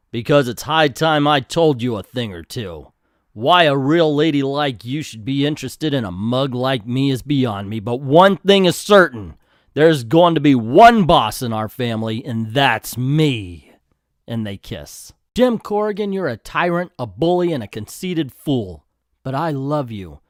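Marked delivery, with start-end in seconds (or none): 0.1-13.7 hammed-up tough guy, punching key words; domineering Jim. Voices Jim laying down law. 15.3-20.2 indignant Clarice softening. Acted. Voices Clarice scolding, then softening.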